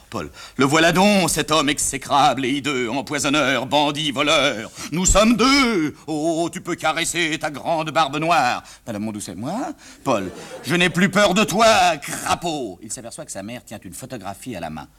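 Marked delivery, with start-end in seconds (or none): 0.6-8.6 grand theatrical declamation, stretched and sweeping; hammed-up tragic actor. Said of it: "papa, je répète". 10.6-12.8 grand theatrical declamation, stretched and sweeping; hammed-up tragic actor. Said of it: "papa, je répète".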